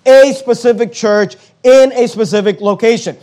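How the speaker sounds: "a specific church" set apart with firm stress; emphatic stress. Real, not acted. Preacher stressing that each church is local, emphatic. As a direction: lean on "a specific" each time. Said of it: "it's always emphasizing".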